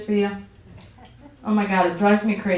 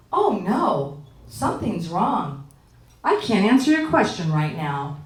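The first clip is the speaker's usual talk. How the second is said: fake-concerned Siri; 2 semitones lower, slower than usual. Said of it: "She goes".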